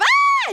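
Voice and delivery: sudden high squeal; Hanji's excited shriek; high excited yelp. Shown as a demonstration. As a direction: jump up into a shrill excited yelp. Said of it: "keep it down here instead of".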